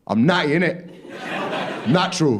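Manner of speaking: hammed-up gym-bro denial. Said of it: "say something that every gym goer wants to say".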